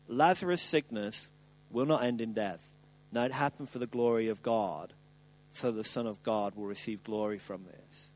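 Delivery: low, soft, solemn words of Jesus; hushed low reading. A narrator's reading. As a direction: read it low and reverent.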